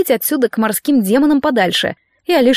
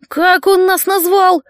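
high, slow, baffled question; stunned, can't believe what he heard; higher, slow incredulous question; dumbfounded; 8 semitones higher, slower than usual. A narrator's reading. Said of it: "обалдел Гийом".

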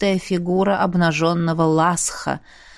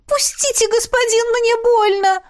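high, pained pleading cry. Acted. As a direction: beg him to let go, it hurts. Concubine in pain.

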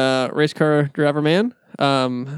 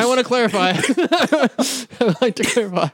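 higher-pitched, laughing through the words; 7 semitones higher, faster than usual. Real, not acted. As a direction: struggle to speak through real laughter. Cracks up while trying to clarify.

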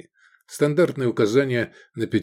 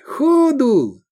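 urgent shout; 14 semitones higher, 5 dB louder than usual. Acted. Urging flight from police.

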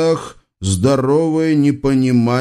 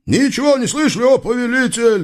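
guards in chorus; 12 semitones higher, faster than usual. A narrator's reading. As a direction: boom out together. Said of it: "дружно грянула стража". (дружный громкий хор стражи)

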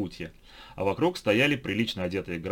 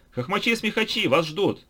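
announcer call; 11 semitones higher, 4 dB louder than usual. A narrator's reading. Announcer calling the group.

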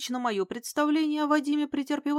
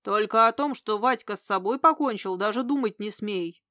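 stern warning. Acted. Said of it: "грозным тоном предупредил".

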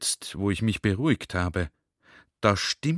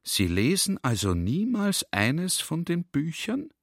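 higher, astonished question; breathless; 6 semitones higher than usual. Retold or imitated. The general, stunned, asks the librarian if he never reads. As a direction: gasp it out in disbelief. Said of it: "Ich frage ihn atemlos".

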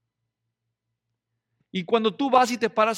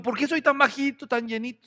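whiny short man; 4 semitones higher, 5 dB louder than usual. Pretend.

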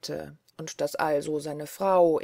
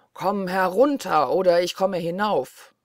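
louder menacing shout; shouting Blaubart; 6 dB louder than usual. Acted. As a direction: bellow the threat up the stairs. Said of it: "schrie aus Leibeskräften". (Blaubart schreit drohend die Treppe hinauf, lauter)

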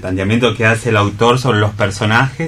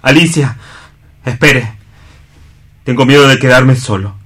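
a shy plea, slightly louder; Juan, timid and afraid; 2 semitones higher, 4 dB louder than usual. Acted. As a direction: ask not to be left alone. Juan asks to join Alicia.

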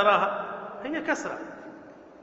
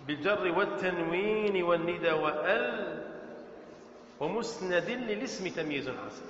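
verse recitation; 5 semitones lower, 7 dB quieter than usual. Shown as a demonstration. Quotes grammar verse from memory.

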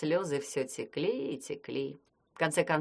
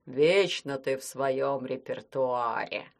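reproachful; 4 semitones lower, slower than usual. Acted. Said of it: "укоризненно произнёс".

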